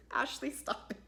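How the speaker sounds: hushed, breathy scold under the breath; mock scolding. Speaker telling Ashley off, hushed. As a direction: mutter it to Ashley so nobody hears.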